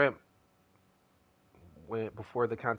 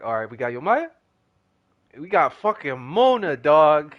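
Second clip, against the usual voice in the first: excited yell; 3 semitones higher, 9 dB louder than usual. Retold or imitated. Reacting to gacha pull result.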